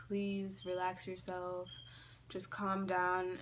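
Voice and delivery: slow, measured soothing; calming dad. Retold or imitated. Dad calming the panicking kid, slow and soothing. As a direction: imitate a dad slowly calming someone. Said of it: "He's trying to calm me down".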